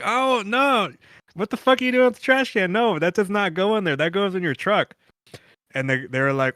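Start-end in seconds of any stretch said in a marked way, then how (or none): 0.0-4.9 retold outburst. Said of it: "I was like".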